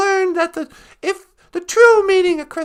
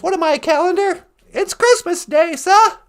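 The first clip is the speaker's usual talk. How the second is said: put-on cheeky street kid; 4 semitones higher, 5 dB louder than usual. Cheeky kid answers Scrooge.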